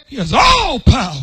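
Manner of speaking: ringing declaration. Acted. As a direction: declare it to the church. Repeated line, loud then soft.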